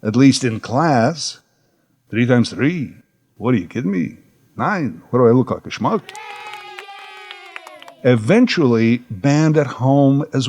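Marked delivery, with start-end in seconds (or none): 2.1-6.0 lightly voiced Mason indignation; a hint of an offended comic; Jackie Mason voice. Boy answering teacher's arithmetic, light Mason indignation. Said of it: "doing the voice at school".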